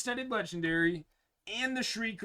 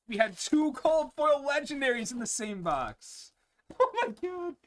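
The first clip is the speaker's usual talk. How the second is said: excited; 9 semitones higher, 4 dB louder than usual. Real, not acted. Two legendaries in box.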